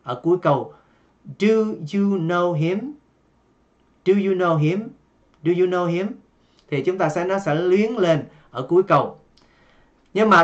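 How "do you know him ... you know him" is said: "Do you know him?" with the pitch rising on "him" at the end; rising question tune. Shown as a demonstration. Teacher showing students the question intonation, rising at the end. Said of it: "chúng ta sẽ lên giọng ở cuối câu".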